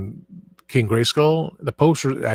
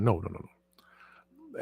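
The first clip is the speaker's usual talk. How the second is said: whispered no; 4 semitones lower, 9 dB quieter, much slower than usual. Retold or imitated. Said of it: "it's like".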